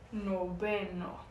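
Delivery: very slow noveno with the v said as b; Spanish noveno. Shown as a demonstration. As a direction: say noveno as no-be-no, drawn out. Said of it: "a letra V com a pronúncia de B".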